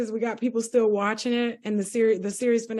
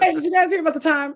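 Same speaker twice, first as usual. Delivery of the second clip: fast, higher teasing through laughter; laughing mock storyteller; 4 semitones higher, much faster than usual. Friend mocking his often-told story, laughing. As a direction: rib a friend as the eager repeat storyteller, laughing.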